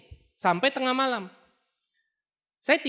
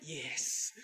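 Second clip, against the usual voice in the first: low, hushed, casual yes; very soft, laid-back mock triumph; retold nonchalance; 8 semitones lower, 13 dB quieter than usual. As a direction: say it coolly under your breath. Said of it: "Saya dengan nyantai".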